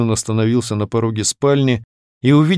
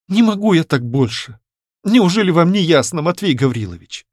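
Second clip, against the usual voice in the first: tired murmur; 7 semitones higher than usual. A narrator's reading. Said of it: "пролепетала устало она".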